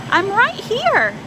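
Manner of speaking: high, loud and slow plea; trapped son calling to his parents; desperate shout. A narrator's reading. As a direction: stretch it out, begging to be heard. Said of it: "wanted to shout".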